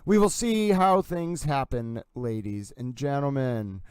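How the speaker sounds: slow announcer-style delivery; drawn out like a boxing announcer; sportscaster voice. Pretend. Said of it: "Howard Cosell towel mood".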